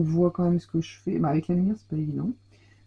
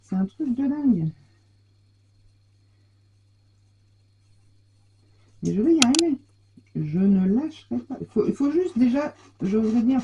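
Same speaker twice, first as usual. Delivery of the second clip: high, effortful struggle with a stuck pocket; straining to open; 5 semitones higher than usual. Real, not acted. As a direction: push through the effort. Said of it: "j'arrive pas à l'ouvrir".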